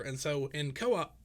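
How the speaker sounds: hiccuping mid-phrase; hiccups. Real, not acted. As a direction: talk while fighting hiccups. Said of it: "I've got the hiccups".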